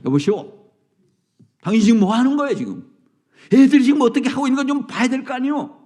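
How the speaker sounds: fast, loud angry confrontation; confronting. Retold or imitated. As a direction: scold the careless father to his face. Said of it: "용기 있는 한 사람이".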